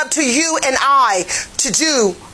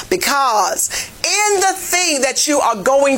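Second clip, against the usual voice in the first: preaching at full force; 3 semitones higher than usual. Acted. Pastor urging his church to confess, shouting preaching. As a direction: drive it home like a pulpit climax.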